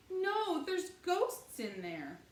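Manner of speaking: put-on high, loud scared child, slow at the end; little girl afraid, pleading loudly; frightened cry. A narrator's reading. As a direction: cry out that ghosts are inside. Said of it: "cried Honey".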